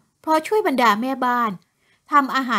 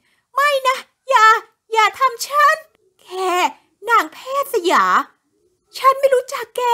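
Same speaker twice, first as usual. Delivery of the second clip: terrified pleading; 10 semitones higher, 4 dB louder than usual. A narrator's reading. Woman begs the ghost.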